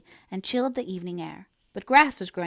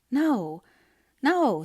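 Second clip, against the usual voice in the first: higher and louder, quick denial; eager; 5 semitones higher, 6 dB louder than usual. A narrator's reading. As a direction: rush to reassure him. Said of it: "said Anne eagerly".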